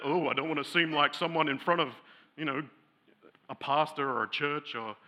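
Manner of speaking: mock prim tone. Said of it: "hoity-toity".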